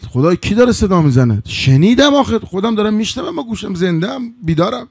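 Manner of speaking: mildly alarmed disbelief, pitch climbing; frightened. Acted. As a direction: protest in rising, startled bewilderment. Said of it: "ترسید".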